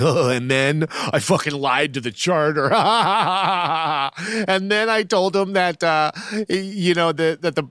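high-pitched, hammed-up cackling brag; mock him bragging through bursts of forced laughter; gleeful mock boast, climbing into an absurd squeal; mocking gloating impression. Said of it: "gonna go back and tell his girlfriend".

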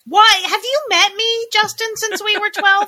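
high, incredulous rant; mock indignation. Real, not acted. Indignant reply to friend's text.

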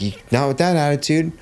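high-pitched retold scolding; irritated coach. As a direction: imitate an annoyed coach dismissing a kid. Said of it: "all irritated about it".

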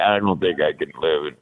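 put-on low, soft touch of Cuban accent; father's Cuban accent. Son voicing father doubting the move, light Cuban accent. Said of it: "he had a big accent".

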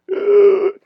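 loud, strained gasp for breath; gasp for air. Retold or imitated. Telling friends how he fought to breathe, loud gasping. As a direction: suck in air like you're choking.

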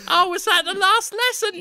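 high cockney lad question; high, eager Cockney boy; squeaky Cockney son asking. Acted.

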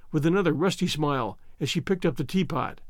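usual speaking voice

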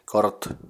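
"Kort" as one isolated Finnish syllable; pronunciation demo. Shown as a demonstration. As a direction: model "Kort" with a clear r before the t. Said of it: "you can just try pronouncing it".

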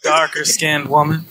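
put-on Texas accent. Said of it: "my Texas accent came out".

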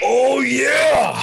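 loud, high burst of hype; excited shout. Real, not acted. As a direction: belt it out like a hype man. Hyping the next game segment.

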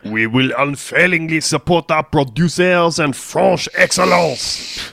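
a hint of a French minister; lightly voiced French accent; mock French accent. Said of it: "Is this guy French?".

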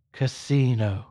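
lightly voiced divine command, distinctly spoken; understated heavenly voice; voice of God, very clear. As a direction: say it clearly, a touch solemn. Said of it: "the voice very clearly".

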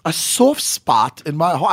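bad mock English accent, r dropped in "heart"; hammed-up attempt at sounding English; put-on English accent. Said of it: "I have an English accent now".

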